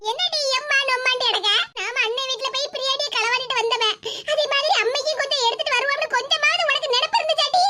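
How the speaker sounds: aggrieved mother berating her daughter; heated but unshouted nagging; angry scolding. Acted. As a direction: keep scolding with mounting indignation. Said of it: "இவ்வளவு தூரம் என்ன ஏசிக்கிட்டு இருக்கா".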